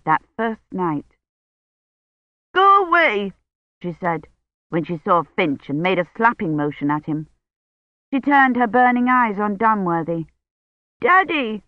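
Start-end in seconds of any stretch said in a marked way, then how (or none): 2.5-3.3 put-on childish go away. A narrator's reading. Feverish old woman shoos Finch. 11.0-11.6 put-on high little-girl call of Daddy; childish cry. A narrator's reading. Feverish old woman calls Dunworthy her daddy, childish cry. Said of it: "she cried".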